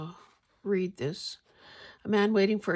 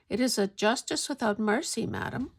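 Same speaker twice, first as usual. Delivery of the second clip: lightly attempted Scottish accent, pitched higher; 4 semitones higher than usual. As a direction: read it as a Scottish duchess, mildly accented. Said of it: "a downright woman with a robust Scotch ac-, accent, replied".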